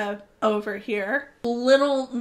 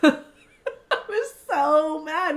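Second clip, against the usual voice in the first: laughing; 3 semitones higher, much slower than usual. Real, not acted. Laughs while recalling frustration.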